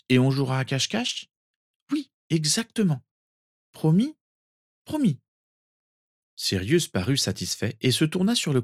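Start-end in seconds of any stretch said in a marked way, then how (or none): 0.1-1.3 put-on higher child's question; hopeful small boy. Sirius asking cousin to play, hopeful. 1.9-3.0 put-on high girl's voice, indulgent; reassuring. Narcissa agreeing to play with cousin, reassuring. 3.7-4.1 put-on high, rising child's question; child seeking promise. Sirius wanting cousin's word, hopeful. 4.8-5.2 put-on very high girl's answer, falling; reassuring promise. Narcissa giving cousin her word, reassuring.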